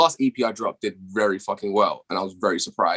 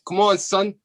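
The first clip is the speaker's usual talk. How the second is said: mock New York accent, pitched much higher; 11 semitones higher than usual. British guest imitating how New Yorkers talk, in a high mock New York accent. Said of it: "New York niggas will talk like".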